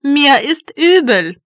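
ordinary talk

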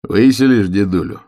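wry, teasing question; ironic. Acted. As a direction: needle him with irony. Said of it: "с иронией спросил он". (с иронией)

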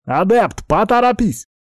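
high, loud urgent call; officer shouting for the healer. Acted. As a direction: yell for the healer to hurry.

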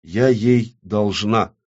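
slow, sighing admission; heavy sigh. Acted. The blight admits a debt, sighing heavily. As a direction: say it slowly, as a weary sigh. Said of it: "тяжело вздохнула порча".

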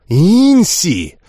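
almost growl it at her; near growl. Acted. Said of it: "почти прорычала Лисанна".

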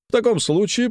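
high, excited interjection; high eager pounce. Acted. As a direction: seize the point eagerly. Kolomeitsev pounces.

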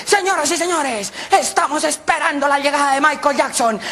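high, slow, stretched-out announcement; show announcer. Acted. Announcer tells the crowd the star is coming, show announcer. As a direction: announce it to a packed stadium.

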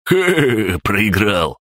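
high, cackling gloat; the orange mokosh laughs at the crab-gnome's loss; gleeful cackle. A narrator's reading. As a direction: cackle over the loser's defeat. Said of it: "залился ликующим хохотом оранжевый".

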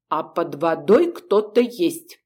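slow, hollow ghostly calm; muffled calm voice. Acted. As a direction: say it calmly from afar. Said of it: "спокойно так ... немного глухим голосом".

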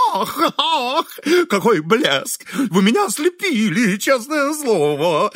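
high, mock-admiring gush with sighs; teasing wit. A narrator's reading. Host mocking his guest in high raptures. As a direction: tease her in gushing raptures. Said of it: "вызывающе острить".

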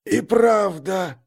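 sinister hiss, words stretched out. A narrator's reading. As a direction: hiss it slowly in agreement. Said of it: "какое-то шипение".

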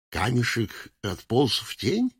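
медленно, с подъёмом на «тень»; переспросить, не веря ушам; недоверчивое удивление. Acted. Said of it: "Что, что?". (изумлённо переспрашивая)

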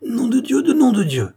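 high, loud outraged swearing; shouted curse. A narrator's reading. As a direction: yell it out as a furious oath. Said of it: "hurla le watman". (juron hurlé, furieux)

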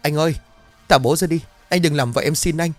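wife begs husband to release his father, pleading scream. A narrator's reading. Wife screaming and pleading with husband. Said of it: "Vợ của gã cũng gào lớn".

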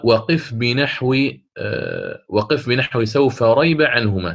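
slow chanted poem line; reciting verse. Shown as a demonstration. Teacher quoting the Shatibiyya verse in chant. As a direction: chant the didactic verse slowly. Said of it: "قال".

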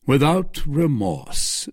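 slow, gentler answer; softened. Acted. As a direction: ease off, calmer now. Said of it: "and softened".

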